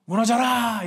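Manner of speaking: high, loud battle cry; imagined shout. Pretend. Pastor imagining what Israel shouted, a loud cry. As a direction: shout it like the walls must fall. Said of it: "이러고 외쳤을까요?".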